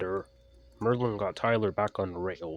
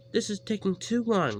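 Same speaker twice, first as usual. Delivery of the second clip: coach voice; 12 semitones higher, 5 dB louder than usual. A narrator's reading. Coach complains.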